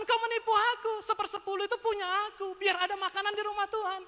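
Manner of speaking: God reproaching people who withhold the tithe; voicing God. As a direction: speak as God scolding firmly. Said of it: "kata Tuhan".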